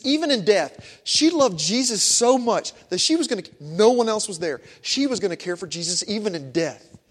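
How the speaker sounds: loud, impassioned sermon climax; full-force preaching. Acted. Preacher to congregation, loud and impassioned. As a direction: preach it out to the whole church.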